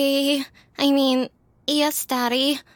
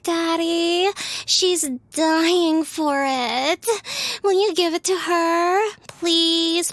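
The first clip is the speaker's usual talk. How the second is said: higher, breathy-free airhead bimbo gush; 4 semitones higher, slower than usual. Acted. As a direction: play the ditzy bimbo, pitched up. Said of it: "you want me to do a stupid bimbo voice".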